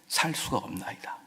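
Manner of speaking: softly breathed confession; breathy whisper. Acted. David confessing dependence, whispered. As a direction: let it fade to breath.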